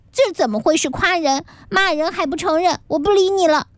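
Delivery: put-on offended boy refusing. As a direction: pout and turn away. (男孩生气地赌气说不理你了)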